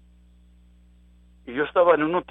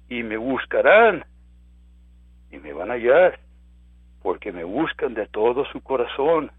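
scripture reading; 5 dB louder than usual. Acted. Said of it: "Mira lo que dice".

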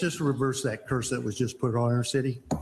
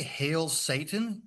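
slow, disbelieving repeat of 'Hail Satan'; incredulous; 4 semitones higher, much slower than usual. Retold or imitated. Retelling his shocked reply.

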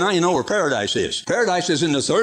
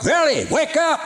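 shouted wake-up call; 11 semitones higher than usual. Shown as a demonstration. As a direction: belt out verily like a wake-up call.

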